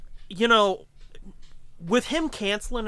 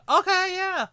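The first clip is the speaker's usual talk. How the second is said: high mock resignation; 12 semitones higher, 4 dB louder than usual. Kato giving up.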